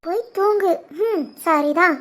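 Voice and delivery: soft, knowing echo; quiet eavesdropper's comment; muttered aside. Acted. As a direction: repeat it under your breath. Eavesdropper echoes the caller to herself.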